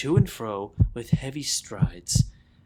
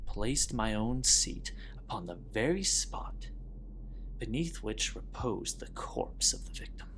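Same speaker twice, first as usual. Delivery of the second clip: softer and softer, as if the officers might hear; hushed narration; 11 dB quieter than usual. Acted. Killer confessing the ringing in his ears, hushed whisper. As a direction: drop to a near whisper and stay there. Tension rises as officers sit.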